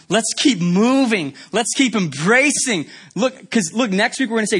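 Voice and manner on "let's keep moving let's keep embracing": encouraging. Retold or imitated.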